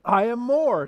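imitated boast, pitched high. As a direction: top their claim with a light brag. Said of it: "So he's boasting".

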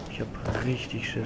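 scared whisper; whispering while hiding. Real, not acted. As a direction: whisper it, afraid to be heard. Hiding scared in horror game. (ängstlich flüsternd)

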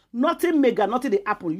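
mock his careless shrug loudly; scornful repeat of Nothing mega, high and loud; mocking echo. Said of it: "He dey kinda say nothing mega".

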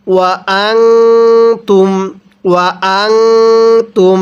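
ওয়া আনতুম with the ন in আনতুম hummed nasally; ghunnah on noon. Shown as a demonstration. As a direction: give the ন in আনতুম a nasal hum. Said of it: "নুন সাকিনটাকে গুন্নাহ করে পড়তে".

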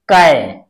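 कै said clearly as kai; syllable demo. Shown as a demonstration. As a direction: say कै crisply, like a teacher modelling it. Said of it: "इसे हम पढ़ेंगे". (कै को साफ़ साफ़ बोलिए)

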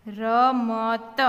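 slow, drawn-out letters; sounded out. Shown as a demonstration. Teacher modelling reading for beginners, sounded out. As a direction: read રમત slowly as ra-ma-ta.

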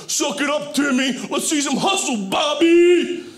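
mock football-dad shouting; sideline dad yelling. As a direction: yell at the kids from the sideline. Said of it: "All the fathers walking up and down the sideline".

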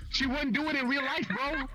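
words broken by real laughter; incredulous laughing. Real, not acted. Player repeating a girl's excuse to the others, laughing. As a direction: crack up while repeating it.

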